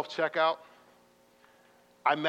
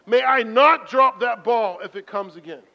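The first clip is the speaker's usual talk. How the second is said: slow, louder pleading prayer; earnest prayer; 4 semitones higher, 8 dB louder than usual. Retold or imitated. Sorry prayer to God after dropping the ball, earnest. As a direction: pray it sincerely. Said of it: "And I said".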